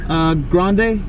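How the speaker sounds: badly faked British accent; amateur mock British; attempted British accent. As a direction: order with a hint of British. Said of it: "act like I'm British".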